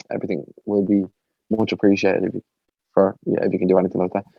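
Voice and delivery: sales pitch losing steam, halting; tapering off. Real, not acted. Podcaster finishing a plug without the words, tapering off. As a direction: trail away, unsure what to say. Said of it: "I kinda tapered off at the end".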